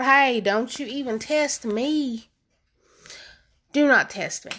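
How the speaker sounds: slow, drawn-out don't-test-me; mock threat to the viewers, slowed down; sassy warning. Real, not acted. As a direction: warn them off, slow and sassy. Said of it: "warning viewers, slow".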